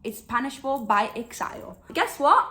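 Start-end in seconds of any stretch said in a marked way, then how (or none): 1.9-2.5 excited tease. Real, not acted. Teasing reveal of forbidden love.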